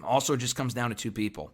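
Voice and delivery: losing voice, hoarse and worn; strained, fading hoarse voice. Real, not acted. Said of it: "I'm losing my voice".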